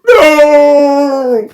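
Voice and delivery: high, loud hammed-up "No!"; mock anguished no. Beast over dead Raven, hammed-up cry of no. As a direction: wail it like a soap opera.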